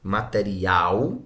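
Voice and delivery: "material" slow, final "al" drawn out; sílaba mais forte. Shown as a demonstration. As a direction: stretch the last syllable of "material", pitch rising. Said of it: "onde é a sílaba mais forte". ("material" devagar, alongando o "al" final)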